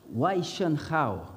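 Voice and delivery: slow, careful attempt at Chinese. Shown as a demonstration. Preacher greeting the church in tentative, slow Chinese. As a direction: try a Chinese greeting, drawn out. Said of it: "this is supposed to be Chinese".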